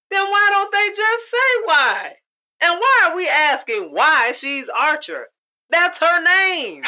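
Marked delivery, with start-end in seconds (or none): 5.7-6.8 whisper. Real, not acted. Aside to partner.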